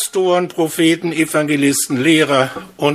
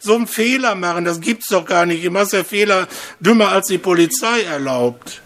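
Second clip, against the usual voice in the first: higher, scolding nag at a quick clip; nagging wife; 5 semitones higher than usual. Retold or imitated. Wife scolds her husband for his stupid mistake, in a high, nagging voice.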